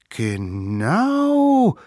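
put-on high, loud child's call; the littlest one chiming in; little one shouting. A narrator's reading. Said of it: "rief der Allerkleinste".

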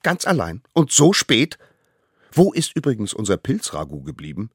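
high, loud nagging; scolding elders. Acted. The elders scold the little one, high and loud. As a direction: nag him like worried parents.

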